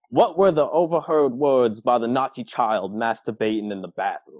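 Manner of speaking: lightly put-on Southern accent; a touch of theatrical Southern detective; Blanc impression. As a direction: attempt a Southern detective's accent, voice falling at the end. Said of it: "Either do the impression or don't do it".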